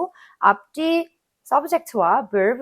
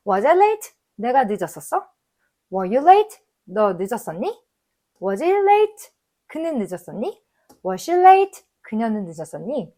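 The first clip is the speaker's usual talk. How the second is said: loud model reading. Shown as a demonstration. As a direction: call each question out for the class. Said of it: "같이 하는 걸로 해볼게요". (크고 높게 late에 강세를 주는 시범)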